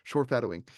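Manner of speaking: "Shorefadowing" said firmly, as a spoonerized foreshadowing; swapped sounds. Retold or imitated. Repeating the family joke word, "Shorefadowing" with the sh and f swapped. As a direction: land "Shorefadowing" as a playful word swap. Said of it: "as my brother-in-law likes to call it".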